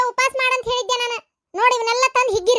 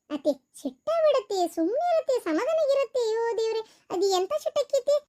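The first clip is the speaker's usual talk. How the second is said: put-on softer, coaxing young wife; pleading daughter-in-law; 2 semitones lower, 3 dB quieter than usual. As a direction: sweet-talk your angry mother-in-law. (ಅತ್ತೆಯನ್ನು ಮೃದುವಾಗಿ ಓಲೈಸುವ ಸೊಸೆ)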